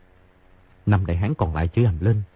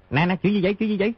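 high, hurried, alarmed; panicked question; 11 semitones higher, faster than usual. A narrator's reading. Boy frightened as old eunuch shakes, high panicked asking. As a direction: blurt it out in a fright. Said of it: "Tiểu Bảo hoảng sợ, vội hỏi".

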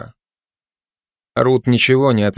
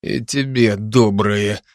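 grumbling; slower than usual. Acted. Constable grumbles back at the cat with a slow mild grumble. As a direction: mutter it back grudgingly. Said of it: "буркнул он".

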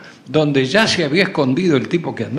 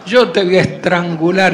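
louder, furious whispered-to-loud threat; angry threat; 6 dB louder than usual. Acted. Hidden lover threatens to strangle the boy, loud and furious. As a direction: bark the threat at the kid.

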